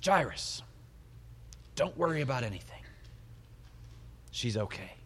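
mild, easy reassurance that drops away; comforting. Acted. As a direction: gently set his mind at rest. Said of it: "a little bit more comforting".

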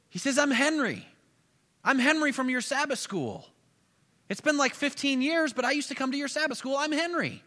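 put-on a former student happily reminding his old pastor; eager young Henry. The former pupil Henry speaks.

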